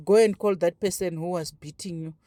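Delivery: imitating an indifferent headmaster; understated, uninterested instruction; inattentive, dismissive. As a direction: toss off the order without real interest. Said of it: "That kind of a vibe".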